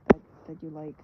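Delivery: lightly mock tutorial presenter; a hint of instructional-video voice; doodling tutorial. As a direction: pretend to host a how-to, starting brighter then easing off. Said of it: "become a doodling tutorial".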